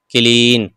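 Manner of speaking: क्लीन with a long ई. Shown as a demonstration. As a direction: hold the "ee" in क्लीन. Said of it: "ये भी बड़ी ई पढ़ा जाता है".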